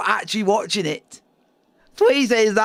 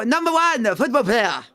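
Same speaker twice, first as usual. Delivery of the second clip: put-on Japanese accent. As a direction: quote it in a mild Japanese accent. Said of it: "you go".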